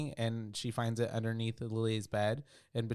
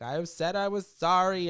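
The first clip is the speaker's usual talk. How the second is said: high, loud, slow possessed voice; demonic yelling; 8 semitones higher, 7 dB louder, slower than usual. Acted. Lily yelling at Emily through the door, high demonic. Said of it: "yelling on the other side".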